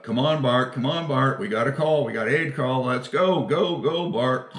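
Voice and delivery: urging wake-up call. Retold or imitated. Partner urging sleepy Bart out of bed, mock loud call. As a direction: rouse a sleeping crewmate with loud nagging.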